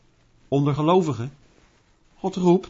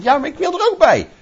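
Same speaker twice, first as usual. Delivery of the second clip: pleading to be included; 5 semitones higher, 3 dB louder than usual. Pretend. Believer begs to be included.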